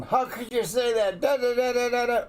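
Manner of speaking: high, loud hammed-up scolding; fly off into a mock tirade; high-pitched accusing rant; mock outraged spouse. Acts out wrong, quarrelsome response.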